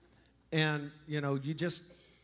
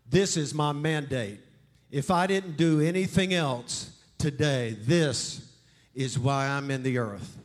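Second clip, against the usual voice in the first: louder, resolute mandate; firm Jesus; 3 dB louder than usual. Acted. Jesus telling the demons his mandate, resolute.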